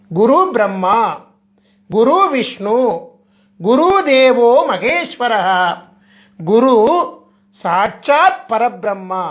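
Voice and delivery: slow, measured recitation of a Sanskrit verse; sloka recitation. Acted. Speaker reciting a guru sloka before explaining it, slow recitation. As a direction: recite the verse slowly, drawing out the syllables.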